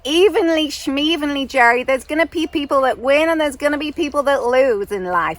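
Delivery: loud, scornful American caricature; dismissive mock-American hectoring; Francine's terrible American accent. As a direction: argue back in a brash put-on American accent. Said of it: "terrible accent of Francine".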